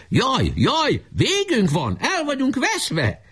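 high-pitched feigned cry of doom; mock panicked wailing. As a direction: wail it high, drawing out the last words. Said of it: "mert még ilyeneket is kiabáltak".

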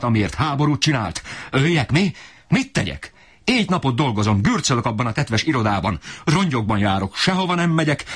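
a cornered man screaming his grievances; raging father. Acted. Father berates family for no bread, high strained rage. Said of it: "kiabált annál jobban".

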